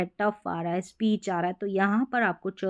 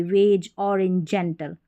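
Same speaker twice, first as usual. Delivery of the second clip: slow example words; 3 semitones lower, slower than usual. Shown as a demonstration. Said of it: "तो हम ज पढ़ेंगे".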